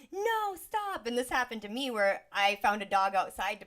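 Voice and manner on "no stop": higher, sharp alarmed call; mom's sharp stop. Retold or imitated. Mom stops her daughter, sharp alarmed call. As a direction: cut the child off with a quick shout. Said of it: "And then my mom went".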